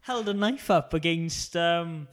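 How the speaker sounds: high, laughing; giggling through it. Real, not acted. Laughing retelling.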